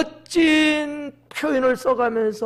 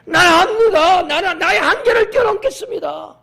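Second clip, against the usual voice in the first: high, loud, fervent vow; bold challenge; 8 semitones higher, 8 dB louder than usual. Acted. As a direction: shout your resolve to break the limit. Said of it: "막 도전을 하는 거예요". (높고 우렁찬 도전의 외침)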